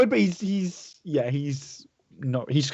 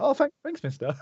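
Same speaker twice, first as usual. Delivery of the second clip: put-on a higher child's voice, a bit bashful; grateful little kid, voice pitched up; boy thanking the stranger for the tug; shy boy; 12 semitones higher than usual.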